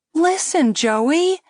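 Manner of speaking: put-on high pleading young woman; girl pleading. A narrator's reading. Girl urging her date Joey to listen. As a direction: call to Joey high and urgent. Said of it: "she was saying".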